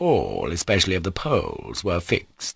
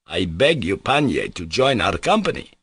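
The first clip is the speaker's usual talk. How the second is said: polite invitation. Acted. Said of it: "he added politely".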